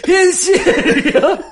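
very slow, high, stretched disbelief; mock disbelief. Friend mocking the stunned witness, slow and high.

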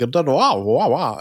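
lightly voiced old cartoon talker; a hint of swooping vintage cartoon speech; Jiminy Cricket. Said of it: "he talks like this".

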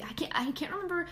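a quick whisper to herself while searching for the word; muttered under the breath, trying to remember; whispered aside. Real, not acted. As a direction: drop to a whisper mid-sentence. Aside while losing her train of thought.

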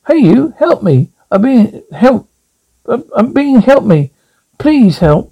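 high, frantic begging to be let out; desperate pleading for help. Acted. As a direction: plead like you're trapped and scared. Trapped man begging for help.

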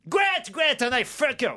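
put-on slow, drawn-out franglais with a thick English accent; mock an English toff stumbling over French; hammed-up English accent. English aristocrat answering his friend's advice, in a hammy English accent. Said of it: "Il prend l'accent de Laurel et Hardy".

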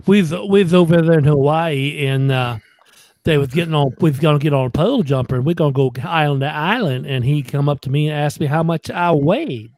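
folksy comedian impression; James Gregory. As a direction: tell it like a country stand-up. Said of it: "That sound like him, Dave?".

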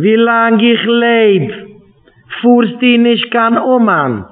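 high, drawn-out yell, held on each word; mock yell. Spouse screaming in a retold quarrel, slow high mock yell. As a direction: wail it out slowly and high in protest. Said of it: "Immer Vater schreit auf mich".

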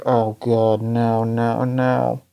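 low, mumbled "oh God, no, no, no"; mumbling in despair. Acted. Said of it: "like, mumbling".

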